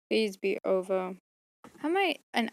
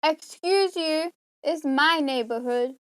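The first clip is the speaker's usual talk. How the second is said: mock indignant; 6 semitones higher, 4 dB louder than usual. Scolding cat for intruding.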